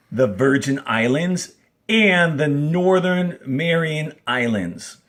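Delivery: clear, steady read-aloud of a textbook passage; reading aloud to class. Acted. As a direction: read the text out for students to follow along. Teacher reads the passage aloud.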